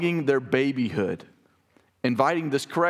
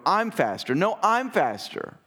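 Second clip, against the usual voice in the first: put-on higher childish bickering, slowing on the comeback; squabbling kids; 7 semitones higher, slower than usual. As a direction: play both kids in a race argument. Kids arguing.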